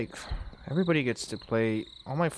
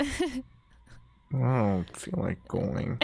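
sulky, slow whine; pouty voice; much slower than usual. Pretend. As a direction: drag it out like a sulking kid. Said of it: "You're like a professional pouter".

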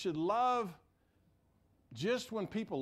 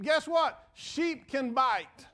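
punchy reveal; 6 semitones higher, 6 dB louder, much slower than usual. Real, not acted. Preacher punchline to congregation.

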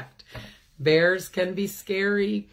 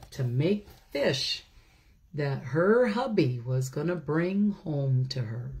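lightly read-aloud story voice; storybook reading. A narrator's reading. A teacher reads the bear story to children, gentle read-aloud.

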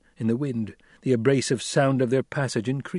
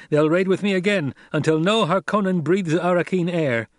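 raised, loud resolute vow; Paul vowing; 7 semitones higher, 4 dB louder than usual. A narrator's reading. Paul vowing war on the Harkonnens, resolute. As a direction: swear it to the troop.

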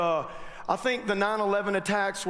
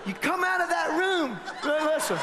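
steward voice; 5 semitones higher than usual. Retold or imitated.

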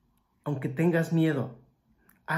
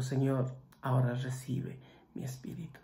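dying whisper; 6 dB quieter than usual. Retold or imitated. Jesus's last breath to the Father.

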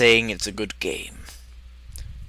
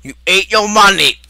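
high, loud disbelief; shocked exclamation; 9 semitones higher, 7 dB louder than usual. Acted. Reacting to money being eaten, shocked exclamation.

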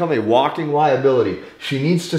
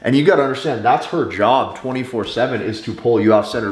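usual speaking voice

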